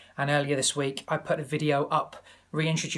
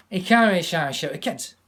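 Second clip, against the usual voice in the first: Scottish pundit; 2 semitones higher, 6 dB louder than usual. Retold or imitated. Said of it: "Alan Hansen".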